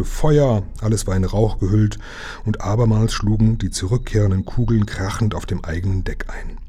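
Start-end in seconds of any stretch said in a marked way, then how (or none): 0.0-0.6 command to fire. Acted.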